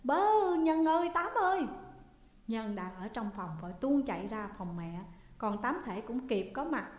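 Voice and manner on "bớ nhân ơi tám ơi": high, loud panicked cry; screaming for help. A narrator's reading. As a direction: yell for the household to come. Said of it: "la lên". (la lớn kêu cứu hoảng hốt)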